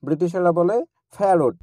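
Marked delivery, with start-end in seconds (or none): 1.2-1.6 ফ্যারট with a breathy ফ; ফ্যারট, said British style; British aspirated p. Shown as a demonstration. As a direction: puff air through the ফ of ফ্যারট. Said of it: "ব্রিটিশেরা করে ফ এর মতো".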